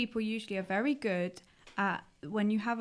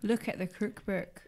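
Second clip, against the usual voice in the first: attempted Scottish accent. Shown as a demonstration. Non-Scot performs on request, attempted Scottish accent. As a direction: have a shaky go at Scottish. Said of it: "in your best Scottish accent".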